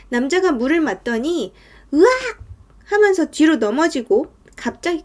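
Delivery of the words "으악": short, loud cry of shock; acted startled yell. Man hit by icy water, startled yell. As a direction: yelp as if suddenly doused.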